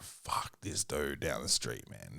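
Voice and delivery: low, slow, soft grumble; muttered aside. Retold or imitated. Dad grumbling about the helpful neighbor. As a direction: mutter it under your breath. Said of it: "parent's muttered complaint".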